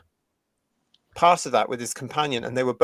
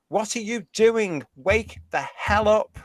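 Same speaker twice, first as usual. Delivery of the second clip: exasperated scolding; 6 semitones higher, slower than usual. Real, not acted. Scolding activists.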